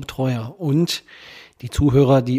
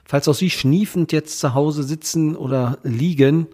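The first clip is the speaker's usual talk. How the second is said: blocked nose from a cold, nasal. Real, not acted. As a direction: speak stuffy-nosed with a head cold. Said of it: "mit meiner nasalen Stimme".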